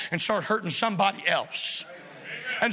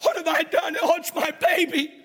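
higher, mock-anguished cries of a mother; a touch of acted horror at the dead baby; horrified; 5 semitones higher than usual. Preacher acts the mother finding her baby dead, horrified. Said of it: "looks down in horror and says".

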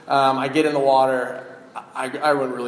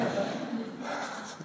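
weary sigh; 9 semitones higher, 12 dB quieter than usual. Retold or imitated. Tired father at water slide.

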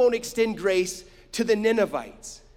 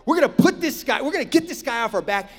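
retold indignant outburst, raised at first; acted heated resolve, rushing at the end; upset; 3 semitones higher, 3 dB louder, faster than usual. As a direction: imitate a fed-up crowd turning on someone. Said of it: "so upset with this guy".

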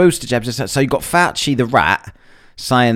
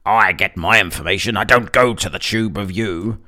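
mocking know-it-all. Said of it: "where these people get it".

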